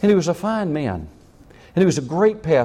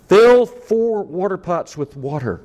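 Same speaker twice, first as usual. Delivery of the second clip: firm command; 4 semitones higher, 5 dB louder, slower than usual. Acted. Elijah commanding, slow.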